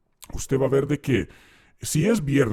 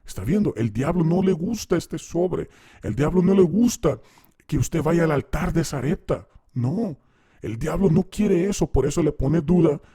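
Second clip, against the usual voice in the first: higher, insistent preacher's pitch to the crowd; pastor preaching; 4 semitones higher than usual. Retold or imitated. Pastor urging the congregation to take the envelope, higher, preachy. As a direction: sell it like a pastor working the room. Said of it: "el pastor va a mirar a las personas y le va a decir".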